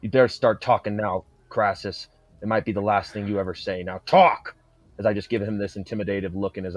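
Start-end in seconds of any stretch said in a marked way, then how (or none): 0.0-4.6 louder, menacing interrogation ending in a shout; growing threat. Acted. Warrior demands the traitor talk, building to a shout.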